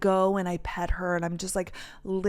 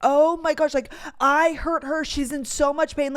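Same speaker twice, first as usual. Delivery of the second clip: panicked retelling; 5 semitones higher than usual. Retold or imitated. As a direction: relive the panic of hurting her dog. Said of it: "started crying".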